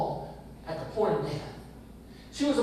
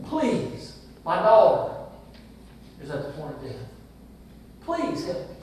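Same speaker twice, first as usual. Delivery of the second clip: pleading; 4 semitones lower than usual. Retold or imitated. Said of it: "and he begged".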